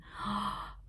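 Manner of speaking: soft intake of breath; admiring gasp. Real, not acted. Showing viewers her gorgeous yarn, soft admiring gasp. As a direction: gasp softly in delight at the yarn.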